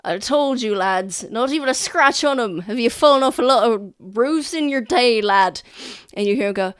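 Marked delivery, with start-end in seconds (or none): 0.0-5.6 lightly voiced hearty soldier, louder; jovial soldier. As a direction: tease the lad, amused. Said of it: "you hear one of them go".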